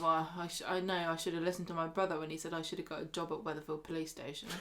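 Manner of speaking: muttered aside. Retold or imitated. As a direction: grumble it under your breath, fast. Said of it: "He says to himself".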